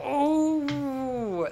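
high, drawn-out moan; high stretched groan of dismay; long agonized groan. Real, not acted. Groaning at a forced choice.

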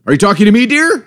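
lightly voiced sweet old grandma who can't hear; imitating grandma. Grandson mimicking grandma asking if he's talking to her, high grandma voice. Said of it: "she'll be like".

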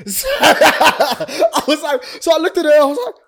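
high, laughing through the words; can't stop laughing telling it. Real, not acted. Telling friends the awkward moment, laughing high. Laughing at his own story.

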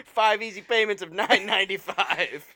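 loud, upbeat sales read; home shopping host. Pretend. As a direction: read the price like a TV ad. Mock infomercial pitch.

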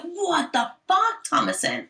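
mother scolding her daughter, a hint of anger; mild mock anger. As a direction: snap at the daughter in a mock rage. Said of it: "She's like".

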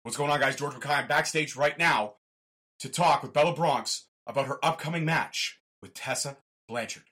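backstage announcer voice. Pretend. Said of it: "I will pretend to be an announcer".

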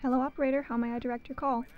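polite switchboard voice; crisp, practiced phone operator patter; operator greeting. Acted. Operator to caller, bright professional greeting.

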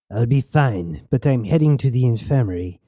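lightly voiced comrade on the comms; a hint of a character voice, reassuring; Goethe's character voice. Goethe tells Knox she will be fine, lightly reassuring.

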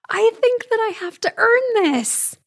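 high, laughing disbelief; real laughter through words. Real, not acted. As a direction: say it while still laughing. Laughing reply to husband.

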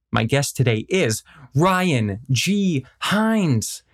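guest announcement. Acted. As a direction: present the guest with showy, drawn-out flourish.

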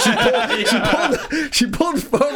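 high, laughing retelling. Real, not acted. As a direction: struggle to tell it through real laughter. Laughing while retelling neighbour's fight.

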